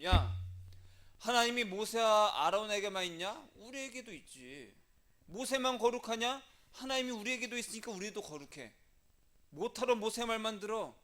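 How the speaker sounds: acted rabble-rousing, high and pushed; defiant challenge. Korah's party rallying against Moses, defiant agitation. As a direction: stir up the mob against the leader.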